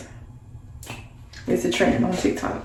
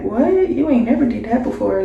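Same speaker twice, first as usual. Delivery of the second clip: surprised question to auntie; 3 semitones higher than usual. Retold or imitated. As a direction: caught off guard by the offer. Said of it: "And you like".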